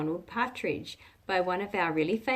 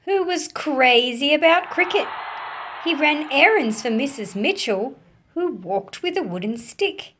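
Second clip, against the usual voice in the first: louder, animated storybook reading; story narration; 3 dB louder than usual. A narrator's reading. Teacher reading a picture book to children, animated storytelling. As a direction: bring the picture book alive for kids.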